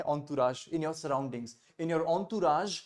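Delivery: entourage said slowly as "on-tu-raj"; teacher spells out entourage as "on-too-raj", drawn out; careful pronunciation demo. Shown as a demonstration. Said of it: "ये बड़ा थोड़ा classy word है".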